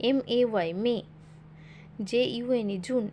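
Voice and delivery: letters spelled in chunks, each chunk then sounded out, like "জে এ যা"; spelling syllable by syllable. Shown as a demonstration. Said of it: "ভেঙে ভেঙে পড়া".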